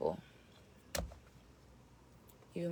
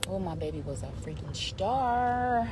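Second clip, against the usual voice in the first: proud marvelling; 3 semitones higher, 6 dB louder than usual. Real, not acted. Marvelling at her baby.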